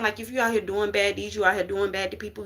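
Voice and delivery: rushed, words tumbling out; racing through the line; talking too fast. Real, not acted. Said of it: "I'm talking too fast".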